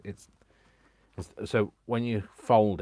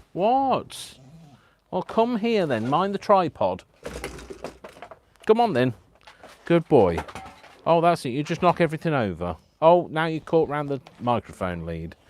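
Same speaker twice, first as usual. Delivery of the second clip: high, loud pet-talk voice; 8 semitones higher, 8 dB louder than usual. Real, not acted. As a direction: call the dog over in exaggerated high tones. Calling pet over past equipment.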